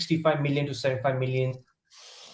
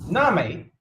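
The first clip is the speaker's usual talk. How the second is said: mock-offended fake Australian, pitched up; bad Australian accent; 9 semitones higher than usual. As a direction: protest in a badly faked Australian accent. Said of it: "your Australian accent is trash".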